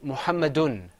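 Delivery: "Muhammadun" ending on a clear un; teacher modelling "Muhammadun"; model pronunciation. Shown as a demonstration. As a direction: say "Muhammadun" firmly for repeating. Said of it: "Say it with me".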